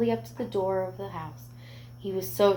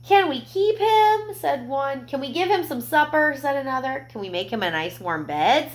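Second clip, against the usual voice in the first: put-on much higher, pleading children's voices; eager boys; 6 semitones higher, 4 dB louder than usual. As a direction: beg excitedly like little kids.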